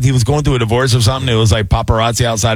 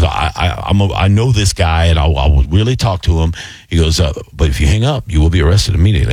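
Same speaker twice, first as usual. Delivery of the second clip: low scammer voice; 6 semitones lower than usual. Retold or imitated.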